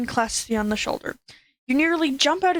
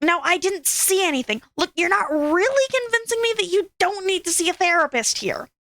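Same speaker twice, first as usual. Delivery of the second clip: harsh, blunt hissing, much higher; 6 semitones higher than usual. A grumpy but caring troll friend crouches beside you and bluntly doubts your story. Hissing, blunt. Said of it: "but nonetheless crouches down with you. / the troll hisses".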